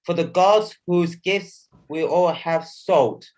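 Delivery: measured poetic recital; poem recitation. Acted. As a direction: recite it like festive verse.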